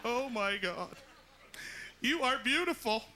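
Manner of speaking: high, slow, tearful gush; gushing Oprah. Retold or imitated. Oprah crying over the new nose, high and gushing. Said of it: "Oprah begins to cry like only Oprah can".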